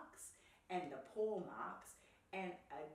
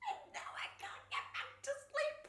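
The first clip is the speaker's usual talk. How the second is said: very high, loud wail; squeaky tearful complaint; crying bear; 5 dB louder than usual. A narrator's reading. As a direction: blubber it like an overtired bear. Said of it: "cried the bear".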